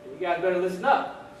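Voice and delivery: lightly acted drill sergeant. Drill sergeant laying down rules to recruits, lightly barked. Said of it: "Drill sergeant says".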